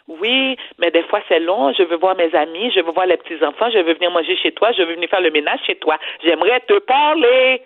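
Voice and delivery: put-on mother's Haitian accent, lightly done. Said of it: "je vais faire l'accent de ma mère".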